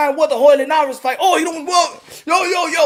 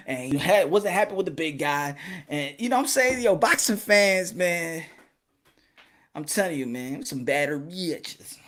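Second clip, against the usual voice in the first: low trailing mutter; 8 semitones lower, 8 dB quieter than usual. Real, not acted. Trailing off lower and softer.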